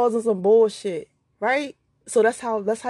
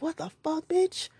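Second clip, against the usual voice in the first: startled muttered curse; 7 semitones higher, 7 dB quieter than usual. Retold or imitated. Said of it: "you're like".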